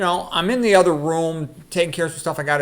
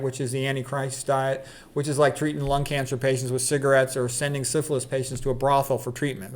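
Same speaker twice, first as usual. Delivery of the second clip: even, slightly lowered reading voice; reading aloud; 3 dB quieter than usual. Acted. Reading a spoof thesis from his book, evenly. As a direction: read it out evenly, deadpan.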